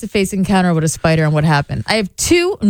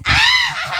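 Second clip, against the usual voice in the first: witch cackle. Pretend. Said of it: "Did you hear my witch voice?".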